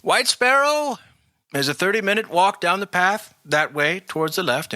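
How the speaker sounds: gruff country coachman. Acted. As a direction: speak like an old coach driver. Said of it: "The coachman turns to your group and he says".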